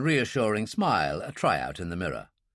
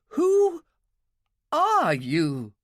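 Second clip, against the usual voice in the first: much higher and louder, panicked repeat; the fear breaks through on the second ask; frightened cry; 4 dB louder, much slower than usual. A narrator's reading. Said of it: "Her voice was shaking".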